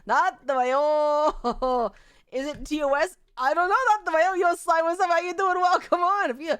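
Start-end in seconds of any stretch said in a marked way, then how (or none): 0.0-1.3 slow dread. Real, not acted. Comic dread. 4.3-6.3 louder, higher mock greeting; imitated voice. A greeting heard in her head, mock voice. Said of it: "I just heard this in my head".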